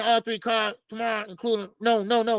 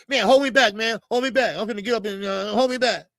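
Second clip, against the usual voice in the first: mock hold-me-back tough guy; 3 dB louder than usual. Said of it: "one of them guys that go up".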